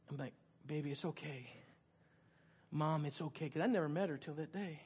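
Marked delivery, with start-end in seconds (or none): 0.6-3.5 soft, gentle comforting; reassuring. Retold or imitated. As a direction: soothe a crying mother quietly. Comforting a crying mother.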